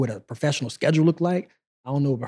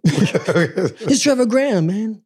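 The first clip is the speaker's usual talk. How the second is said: laughing, slow, higher imitation of his accent; drawn-out mock accent through a laugh; Trevor's accent; 7 semitones higher, 4 dB louder, much slower than usual. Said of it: "With his accent".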